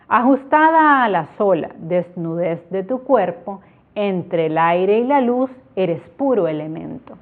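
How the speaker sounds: measured lyrical reading; poem reading. Shown as a demonstration. Teacher reading a heptasyllable example aloud, measured and lyrical. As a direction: read each line as a verse. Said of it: "Ahorita ustedes están viendo un ejemplo".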